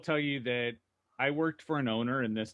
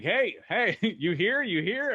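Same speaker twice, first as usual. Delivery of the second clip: raised, higher calling voice searching a room; a partly reenacted call across the service lounge, pitched up; calling out a name; 5 semitones higher, 4 dB louder, slower than usual. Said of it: "start yelling this guy's name".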